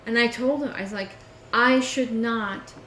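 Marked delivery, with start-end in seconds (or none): 1.5-2.7 slow, higher, louder indignant protest; indignant complaint. Retold or imitated. Retelling her complaint to him, slow indignant protest. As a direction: stretch it out like you're fed up.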